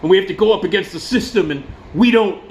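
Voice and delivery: imitating a tearful, whining frontman; hammed-up weepy speech; mock crying. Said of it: "God, he's crying, he's crying".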